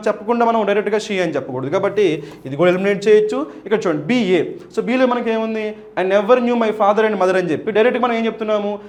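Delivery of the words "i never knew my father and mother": slow reading. Shown as a demonstration. Teacher quotes option B.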